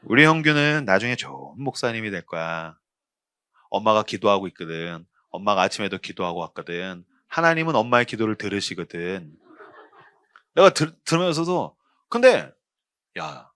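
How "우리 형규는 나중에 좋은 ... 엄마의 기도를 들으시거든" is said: tender mother. Retold or imitated. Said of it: "우리 엄마 그랬어요".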